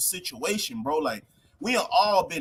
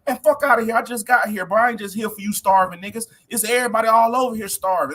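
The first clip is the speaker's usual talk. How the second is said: louder, brushing off a beggar; dismissive president; 3 semitones higher, 5 dB louder than usual. Retold or imitated. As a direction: wave him off with a scoff.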